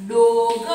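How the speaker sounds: "ડોગ" said loud and drawn out; pronunciation demo. Shown as a demonstration. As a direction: model "ડોગ" loudly for the class. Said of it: "અંગ્રેજી ઉચ્ચાર".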